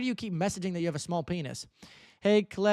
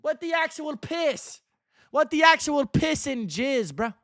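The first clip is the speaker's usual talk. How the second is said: incredulous; 10 semitones higher, 6 dB louder than usual. Real, not acted. Shocked by chat message.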